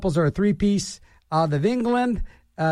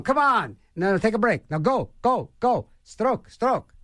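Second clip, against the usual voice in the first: mock rowing coach; 5 semitones higher than usual. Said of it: "people yell at 'em".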